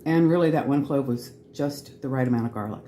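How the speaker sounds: talking with a mouthful; chewing while talking, mouth full. Real, not acted. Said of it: "Sorry for having a full mouth".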